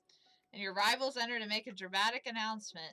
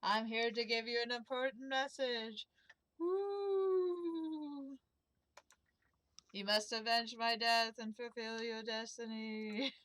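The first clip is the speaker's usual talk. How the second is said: overacted death scene; slower than usual. Ghost delivers prophecy.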